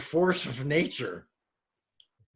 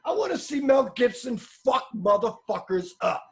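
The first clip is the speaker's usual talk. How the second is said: excited shout; 8 semitones higher than usual. Real, not acted. Hyped about action movie.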